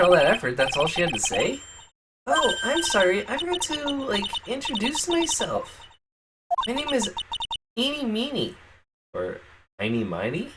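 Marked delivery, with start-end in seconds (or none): 2.3-8.6 put-on high, airy Valley Girl. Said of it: "Valley Girl voice".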